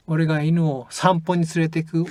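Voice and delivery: 散歩 stressed in the sentence; 散歩 said with a strong English-style stress. Shown as a demonstration. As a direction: lean on 散歩 to show where the dog goes. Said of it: "or maybe".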